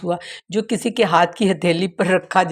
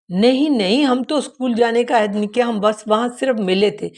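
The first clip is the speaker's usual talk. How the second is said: flustered denial; 3 semitones higher than usual. Acted. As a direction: blurt out the excuse before she can finish. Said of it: "بے ساختہ ایک عدد عذر پیش".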